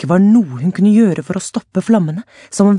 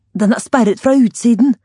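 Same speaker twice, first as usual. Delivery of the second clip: shouted, higher, through a smoke-choked throat; coughed out; 7 semitones higher, 5 dB louder than usual. A narrator's reading. Alania answering Luan amid smoke, coughing shout. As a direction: force the words out between coughs. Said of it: "hostet Alania tilbake".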